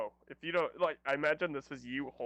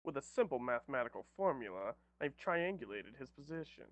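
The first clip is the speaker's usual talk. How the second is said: lightly voiced bookish genius, swooping tune; a hint of smug boffin; know-it-all nerd; 3 dB quieter than usual. Player voices Cab working out the distance, lightly nerdy. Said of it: "Cab pushes up his glasses".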